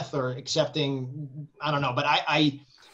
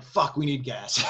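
retold curse. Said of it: "and I'm like".

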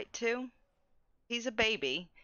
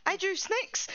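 put-on deadpan toddler; 8 semitones higher than usual. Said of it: "Like, so serious".

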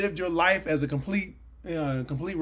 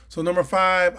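"So number five" said again, louder and more forceful; louder restart; 6 dB louder than usual. Shown as a demonstration. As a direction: relaunch the point with punch.

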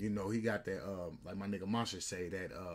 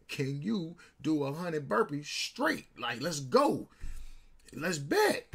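emphatic, raised-pitch dare; retold challenge; 4 semitones higher, 4 dB louder, slower than usual. Storyteller replays daring his friend to a burpee bet, challenging. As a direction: throw down a challenge, louder by the end.

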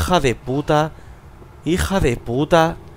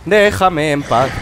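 angry; 2 semitones higher, 4 dB louder than usual. Real, not acted. Attacked by monster, furious.

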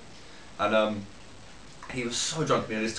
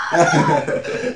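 high, loud, disbelieving shriek of no; crowd shouting no; 8 dB louder than usual. Retold or imitated. Crowd watching the drunk mate fall in mud, shrieking. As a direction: shriek it like the whole crowd in shock. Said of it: "And everyone was like".

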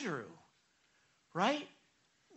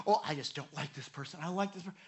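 petty complainer; 4 semitones lower, 8 dB quieter, faster than usual. Retold or imitated. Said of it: "Some of you".

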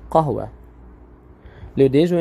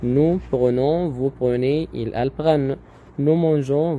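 nous prenons drawn out very slowly, each syllable clear; teacher to class, stretching out nous prenons slowly; slow teaching model; much slower than usual. Shown as a demonstration. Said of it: "تاني".

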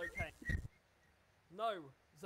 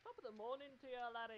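mock Irish accent; 3 semitones higher, 6 dB quieter than usual. Teasing friends who doubt the voice, mock Irish accent. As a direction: lightly put on an Irish brogue. Puts on Irish stock phrase.

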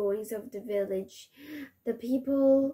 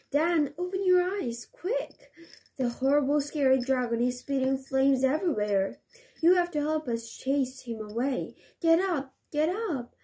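urgent elf; 3 semitones higher than usual. Acted. Elf wakes Dan urgently.

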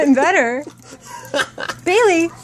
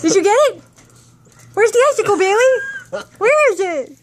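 high, eager calling to a dog; excited dog call; 5 semitones higher, faster than usual. Real, not acted. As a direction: coax the dog to find it.

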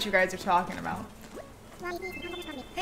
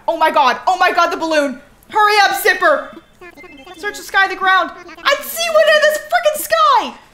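high excited shrieks, much louder; shrieking jackpot winner; 8 semitones higher, 8 dB louder than usual. Real, not acted. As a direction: yell it like you just won big. Spots balloon present, shrieks.

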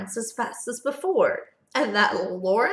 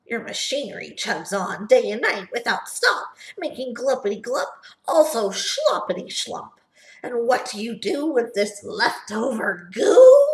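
mildly heated Lorax voice; angry Lorax; 3 dB louder than usual. Acted. Lorax scolding the Onceler about Gluppity Glup, heated. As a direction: scold with rising temper. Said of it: "his dander was up".

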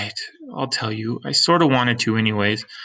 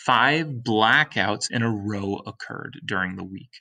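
dramatic narration; slower than usual. A narrator's reading. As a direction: land each five like a drumbeat. Dramatic reading, music.

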